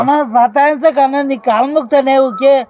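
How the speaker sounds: loud pleading. Real, not acted. Worker begs the older man to stop pestering, loud pleading. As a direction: beg him loudly to stop nagging you.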